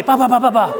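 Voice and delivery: high gibberish tirade, lightly done; playful impression of a fiery scolding; mock scolding. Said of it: "she was firing away".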